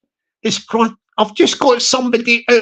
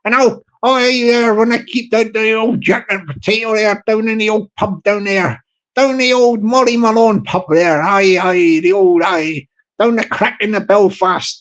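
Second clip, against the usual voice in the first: put-on Irish accent. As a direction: play one of the boys with an Irish pub accent. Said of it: "we'll try and keep it tight".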